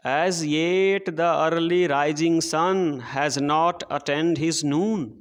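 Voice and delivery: very slow, measured verse reading; poem recitation. Shown as a demonstration. Teacher reading poem to children, slow recitation. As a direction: read the line out word by word for the class.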